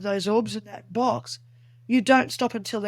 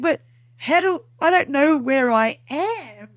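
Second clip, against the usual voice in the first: confused protest; 3 semitones higher, 4 dB louder than usual. Retold or imitated. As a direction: plead total confusion. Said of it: "I'm so confused myself".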